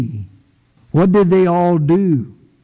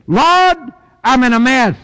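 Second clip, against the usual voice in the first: pleading prayer; 9 semitones higher than usual. Acted. Voicing a praying believer.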